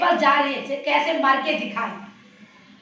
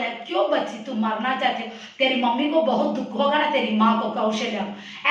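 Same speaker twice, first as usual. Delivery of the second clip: lovingly; 3 semitones lower than usual. Acted. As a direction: gently coax the child, lowered voice. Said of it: "और प्यार से बोला".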